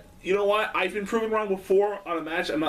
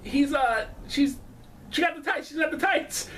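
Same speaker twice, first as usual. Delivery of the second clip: mock commentator; 5 semitones higher than usual. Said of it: "Lawler was trying to say".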